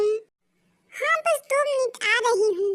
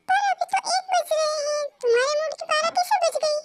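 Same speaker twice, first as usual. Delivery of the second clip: teasing through laughter; 5 semitones higher than usual. Acted. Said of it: "ताई, तुम्हें हंसी आ रही है".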